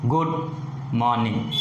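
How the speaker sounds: lifted "Good", falling "morning"; rise then fall. Shown as a demonstration. Teacher repeating the greeting example, pitch falling down. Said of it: "falls down".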